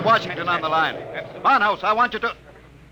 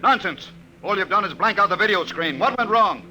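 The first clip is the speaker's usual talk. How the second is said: sharp raised questioning; impatient demand; 6 semitones higher than usual. Acted. General scolding the professor over the blank screen, raised and impatient. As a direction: demand answers, rattled. General thinks weapon failed.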